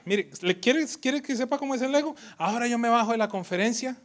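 a hint of the priest. Priest mocking his own ego, lightly voiced. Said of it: "él mismo decía".

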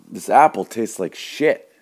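high, loud, slow complaint; disgusted customer. Acted. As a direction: play outraged disgust at the taste. Customer disgusted by apple's taste.

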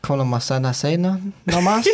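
fake foreign language. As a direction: fake Spanish with a questioning lift. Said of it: "but I'm like".

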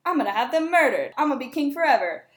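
high gloating that sinks to scheming; mock-excited new king turning paranoid; gleeful then paranoid king. Macbeth crowned and plotting, hammed-up glee to paranoia. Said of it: "So then Macbeth is like".

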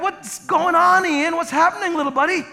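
father yelling back. Retold or imitated. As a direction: shout back warmly to the boy. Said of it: "Bill yells back".

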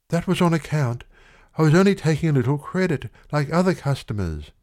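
put-on huffy young woman justifying herself; haughty girl. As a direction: defend herself with a toss of the head. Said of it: "with a haughty movement of the head".

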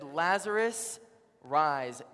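calling out. Retold or imitated. Jesus calls Lazarus at the grave, calling out. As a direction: call him out of the grave.

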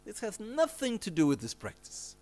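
imitating an angry master's outburst; wrathful master. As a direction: send them off with sudden, high-pitched wrath. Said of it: "Rinpoche was very wrathful".

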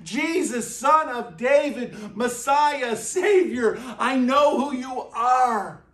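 a touch of a desperate cry; acted desperation. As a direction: call out urgently to the one who can save you. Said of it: "Like, in complete desperation".

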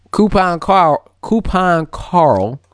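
slow, relishing each word; drawn-out nickname. Real, not acted. Host savours a nickname for co-host, drawn out slowly. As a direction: stretch both words out, amused. Deliberately repeats the funny nickname.

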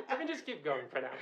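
soft, settled repeat; quiet. Real, not acted. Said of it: "repeats quietly".

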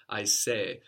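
"I say" with the accent on the first of two final E's; Swahili-sounding "I say", accented on the first E. Shown as a demonstration. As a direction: stress the second-last syllable of "I say", final vowel split in two. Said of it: "accent's on the first E".

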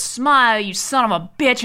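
loud, punched movie-hero line; mock defiant shout. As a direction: punch it out like the hero's last shot. Acting out Brody's final shot.

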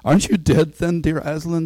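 put-on high child's wondering question; Lucy. A narrator's reading. Lucy asks the returned lion, high and wondering. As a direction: ask it high, as an amazed little girl. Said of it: "said Lucy".

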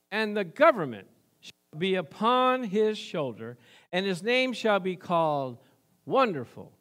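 measured, emphatic pulpit reading; scripture proclamation. Real, not acted. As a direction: declaim each title on its own, with pauses. Declaims scripture to congregation.

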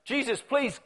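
a lightly voiced rich man pleading with Jesus to dine; wealthy townspeople inviting. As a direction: coax him in like a host who wants the honour. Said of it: "voices of wealthy people".

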